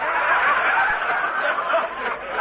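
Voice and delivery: airy chuckle burst; breathy laugh. Real, not acted. Laughing at comeback.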